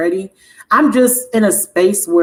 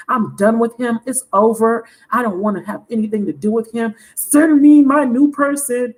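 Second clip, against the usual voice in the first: imitating her past self demanding; mock demand to the universe; 2 semitones higher than usual. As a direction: demand a new partner like a fed-up customer. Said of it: "because I said".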